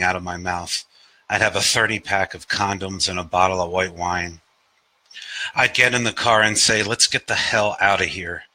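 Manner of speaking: long running lines that sink at the end; lightly stylised verse reading, understated close; poetry reading. Acted. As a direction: recite it as a confessional prose poem. Reads own poem aloud.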